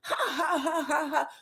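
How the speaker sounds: high mock ha-ha-ha; imitated laughter. Imitating both sides of the table cracking up, mock laughter. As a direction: act out a table bursting into laughter. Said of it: "laughter erupts".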